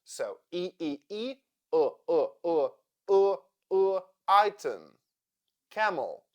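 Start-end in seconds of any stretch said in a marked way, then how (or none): 0.5-4.8 E repeated, then UH repeated, into item; schwa drill. Shown as a demonstration. Teacher drilling the unstressed second syllable of item, schwa drill. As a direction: drill E turning into a neutral UH before item. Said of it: "so E sounds like uh".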